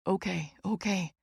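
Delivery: soft, calming okays; soothing. A narrator's reading. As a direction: settle her down gently. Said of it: "Jake soothes".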